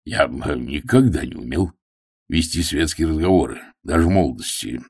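an awkward man admitting a flaw; gruff hunter turned meek; humble. Acted. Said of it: "несвойственное ему смирение".

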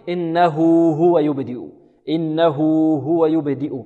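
"إنه" ends in a long oo before "هو"; madd of two counts. Shown as a demonstration. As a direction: draw out the waw sound in "إنه هو" for two beats. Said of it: "تمد بمقدار كم؟ بمقدار حركتين". (مدّ واو الصلة في "إنه هو" حركتين)

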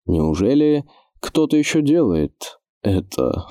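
slow, puzzled question. Acted. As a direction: ask it baffled, drawn out. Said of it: "озадаченно спросил он".

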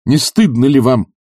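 a touch of fiery sincerity; sincere exclamation. A narrator's reading. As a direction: plead with sincere fervour. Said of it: "искренно воскликнул пламенный Барменталь".

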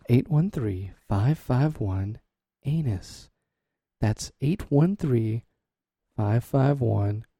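five five one said slowly, digit by digit; slow number readout. Shown as a demonstration. Host repeating the call-in number, slowly. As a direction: read the digits out one at a time. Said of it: "again, that number is".

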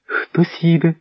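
high cry with the voice lifted; excited cry. Acted. Svitozara hearing hoofbeats, high excited call. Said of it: "і закричала".

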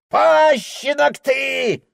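high squealing shout, slow; father shrieks at his son; shrieking insult. A narrator's reading. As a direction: shriek it like a spiteful old man. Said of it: "взвизгнул он".

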